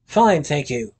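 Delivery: teeth chattering from cold; shivering stutter. A narrator's reading. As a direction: stammer through chattering teeth. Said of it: "Willie managed a little colder".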